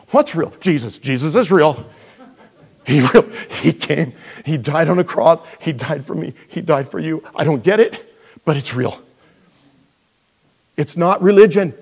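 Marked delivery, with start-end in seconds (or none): 0.1-0.5 quoting friend. Retold or imitated. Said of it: "she goes". 0.6-9.0 emphatic retold testimony. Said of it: "And I said".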